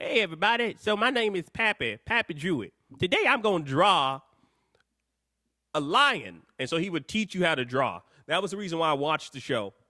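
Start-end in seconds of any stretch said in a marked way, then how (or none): 0.0-6.4 put-on old, folksy rural southern TV host voice. Retelling how an old man on a drawing show greeted viewers: imitating Pappy Drewitt. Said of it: "He was like".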